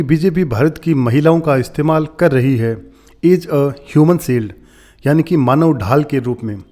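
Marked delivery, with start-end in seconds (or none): 3.2-4.5 "is a human shield" read very slowly, word by word; slow dictation-style read; slow quoting. Shown as a demonstration. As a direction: drag each word out for learners. Teacher reads article phrase.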